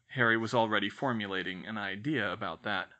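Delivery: ordinary delivery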